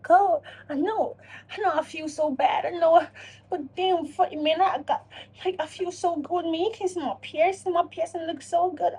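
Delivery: high, put-on whimpering to the mirror; mock tearful self-talk. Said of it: "talking to yourself like".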